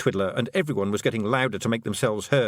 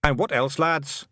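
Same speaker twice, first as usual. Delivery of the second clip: put-on high, lilting Scots-accented little man; a cheeky tiny clansman owning up; wee Scottish Feegle; 6 semitones higher, slower than usual. Feegle chief confessing to the young witch, high Scots voice.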